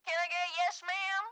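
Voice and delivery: lightly Southern camp counselor; brisk orientation-leader welcome for new campers. Pretend. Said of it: "the camp counselor voice".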